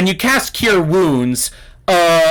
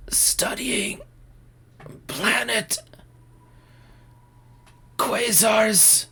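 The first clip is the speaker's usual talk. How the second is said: faint, breath-starved whisper of a dying man; acted last words, weak and halting; dying gasp; 4 semitones higher, 7 dB quieter, slower than usual. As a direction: squeeze out each word with long gaps between. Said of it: "He takes a moment to try to catch his breath".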